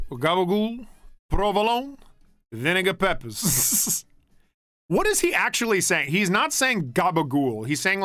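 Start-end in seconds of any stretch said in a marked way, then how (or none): 0.1-4.1 mock Jersey Italian accent, Tony Soprano ordering. Imitating Tony Soprano ordering a sub in a Jersey accent. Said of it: "Tony Soprano ordering a sub".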